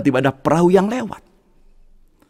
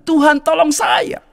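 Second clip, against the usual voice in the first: slow, higher shouted plea; crying out; 11 semitones higher, slower than usual. Acted. Man shouting to God from the flood, slow shout. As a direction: call out to God slowly.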